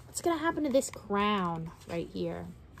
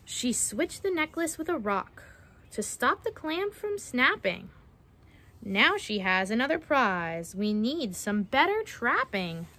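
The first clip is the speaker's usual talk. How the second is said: measured picture-book storytelling; reading to children; slower than usual. Acted. Narrator reading a mermaid-trapping rhyme to children, storytelling. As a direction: read it out with a lilting rhyme.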